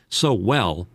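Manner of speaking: trailing off on the last of his breath; running out of breath mid-sentence; out of air. Real, not acted. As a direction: squeeze out the words with no air left. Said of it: "See, I just ran out of air there".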